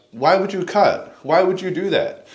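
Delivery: high, loud disbelief; incredulous. Retold or imitated. Questioning lighter guys who cut, high incredulous voice. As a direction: ask in shocked disbelief. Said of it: "I'm like".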